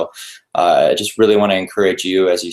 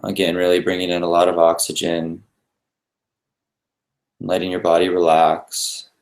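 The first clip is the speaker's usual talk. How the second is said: unhurried guidance with long pauses between phrases; guided meditation. Real, not acted. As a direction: lead listeners gently through breathing, leaving space after each instruction.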